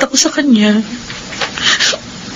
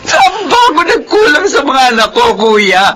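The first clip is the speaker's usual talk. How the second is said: sobbing lament. Acted. Mother sobbing to brother.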